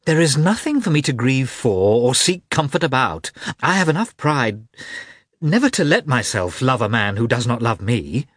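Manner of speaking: agitated proud retort; excited. Acted. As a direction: hold your pride, heated. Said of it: "in her excitement".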